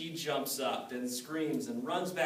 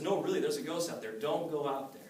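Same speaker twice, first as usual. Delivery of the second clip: higher, louder, fast and pleading; urgent insisting; 4 semitones higher, 6 dB louder than usual. Acted. Jake warning his wife not to go out, urgent and fast. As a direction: urge her not to go out.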